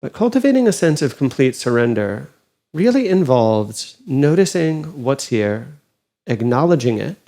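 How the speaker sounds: calm, unhurried meditation guide with long pauses; guided meditation. Acted. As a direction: gently guide them inward, leaving space between phrases.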